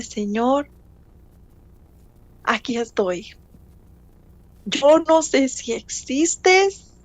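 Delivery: slow, pleading prayer, a touch of tears; tearful prayer. Retold or imitated. Alone on her knees, begging God for help: slow pleading.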